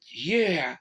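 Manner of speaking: loud, high strained call. Acted. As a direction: push out a weak call. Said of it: "Joe managed to call out".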